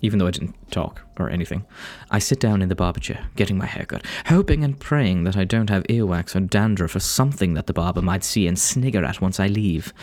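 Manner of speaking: narrative read in a put-on English accent; English accent, carefully read out. Real, not acted. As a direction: tell it like an English audiobook narrator. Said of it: "easier to read in an English accent".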